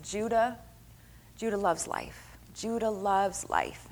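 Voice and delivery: soft, slow blessing over her son; speaking life over him. Retold or imitated. Mother speaks life over her son, softly. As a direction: gently declare it, word by word. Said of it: "I'd speak the word over him".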